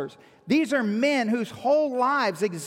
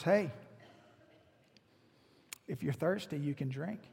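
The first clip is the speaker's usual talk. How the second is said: hushed, low voice, fading softer at the end; gentle invitation; 8 semitones lower, 12 dB quieter than usual. Retold or imitated. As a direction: offer it very softly, as if to one person. Same gentle offer to half-brothers.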